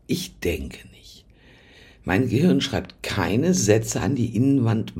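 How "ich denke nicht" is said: slow hushed whisper of Ich denke nicht; whispered softly and slowly. Shown as a demonstration. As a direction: breathe the words, no voice. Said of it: "ich denke nicht und bin".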